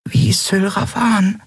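plain reading voice

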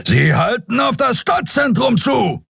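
high, ringing alarmed report; roaring captain. Acted. Captain Sron roaring to his bridge crew, high and alarmed. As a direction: bellow the warning. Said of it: "brüllte Kapitän Sron".

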